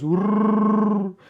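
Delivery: loud rolled growl, high-pitched; Wookiee growl. Retold or imitated. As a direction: roar like Chewbacca. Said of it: "him goes".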